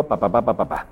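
a fading, dropping echo sound; imitated echo. The dad shows his son the echo, fading repeats. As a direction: let each pa die away like an echo.

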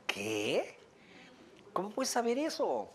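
dad who can't believe it; baffled father. Retold or imitated. The father asks the mother how she could possibly know, baffled.

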